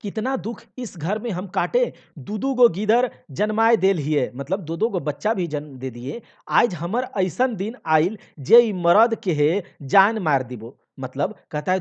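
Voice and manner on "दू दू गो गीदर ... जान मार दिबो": lament. Acted. Wife laments to husband.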